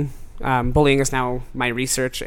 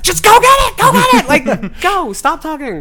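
much higher, loud frantic yelling; retold frantic scream; 8 dB louder than usual. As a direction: shriek at a friend to hurry up. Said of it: "She screams".

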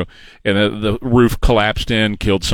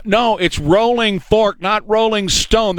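mock crowd correction; 10 semitones higher, slower than usual. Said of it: "the people in the audience are now saying to him".

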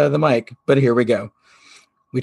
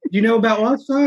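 sweet Southern lady; 10 semitones higher, faster than usual. Retold or imitated. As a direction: draw her in gently, like a Southern aunt. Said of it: "She goes".

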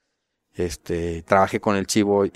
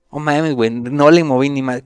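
mock disbelief; 5 semitones higher, 6 dB louder than usual. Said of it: "yo así de".

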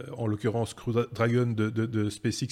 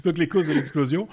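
laughing; 4 semitones higher, 4 dB louder than usual. Real, not acted. Restarts the phrase while still laughing.

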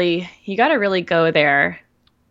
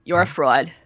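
lightly voiced raspy inner critic; Bitchy Brenda. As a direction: sneer it like a smoky inner critic. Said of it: "So Bitchy Brenda's like".

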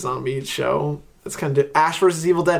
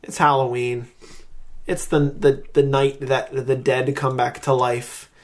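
spooky outro. Pretend. Performs a Halloween outro.

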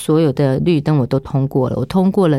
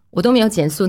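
normal talking voice

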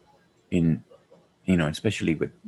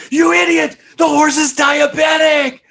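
high furious mock shout; imitating the cop; 7 dB louder, slower than usual. Quoting the cop screaming at the man, high shout. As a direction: yell it like an outraged cop. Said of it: "He's like".

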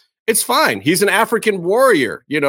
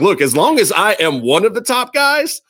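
voicing Booker T. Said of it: "It's like".

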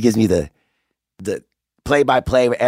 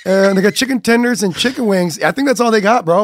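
dude voice; 10 semitones higher than usual. Retold or imitated. Voicing Riley.

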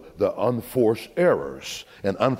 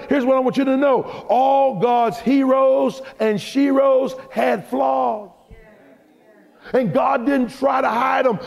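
preaching at full force; 12 semitones higher than usual. Acted. Preacher to his congregation, shouting. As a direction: let it ring out over the church.

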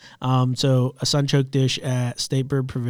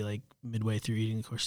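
whispering; 10 dB quieter than usual. Real, not acted. Whispered aside in story.

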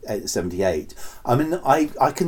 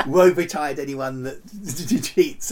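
laughing through the line; 2 semitones higher than usual. Acted. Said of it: "outtakes of overacting".

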